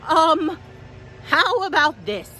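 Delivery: high, frightened pleading; scared goat. Acted. Billy terrified the troll will eat him, high and begging. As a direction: beg the troll in a panic.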